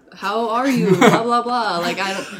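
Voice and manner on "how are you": mock, imitated broken English. Retelling messages from men from India: imitating broken English. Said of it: "very broken English from, like, men from India".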